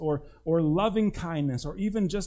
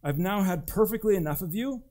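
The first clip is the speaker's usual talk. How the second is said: exasperated God; 5 semitones higher than usual. Acted. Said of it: "He could have responded to him by saying".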